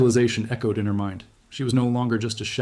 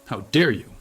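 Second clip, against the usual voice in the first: mildly outraged, a bit louder; voice rising; 5 dB louder than usual. A narrator's reading. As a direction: raise the voice in indignation. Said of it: "Michael's voice rose".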